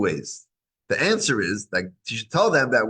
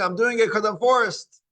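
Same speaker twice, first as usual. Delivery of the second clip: grudging; 11 semitones higher than usual. Retold or imitated. Voicing forced attitude.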